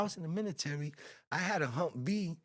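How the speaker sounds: whispering. Real, not acted. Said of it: "Why are you whispering?".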